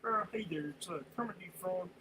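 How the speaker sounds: a casual hint of Kermit the Frog; Kermit the Frog impression. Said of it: "talk like Kermit".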